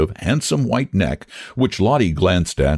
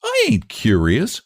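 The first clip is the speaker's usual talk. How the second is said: Lottie voice; 12 semitones higher than usual. A narrator's reading. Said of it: "She tried to smile".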